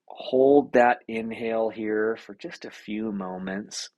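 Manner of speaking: unhurried meditation guide, long pauses between instructions; lightly held calming guide voice; guided meditation. Acted. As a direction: lead a breathing exercise, pausing between steps.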